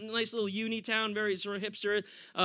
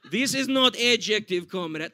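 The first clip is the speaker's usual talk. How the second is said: slow, mock Russian accent; Russia personified. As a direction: correct them deadpan in a Russian accent. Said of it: "I'm sure Russia gets a little".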